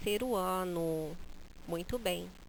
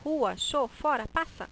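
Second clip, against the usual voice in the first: shooing away; 5 semitones higher than usual. Shown as a demonstration. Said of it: "pronunciar da forma como eu queria".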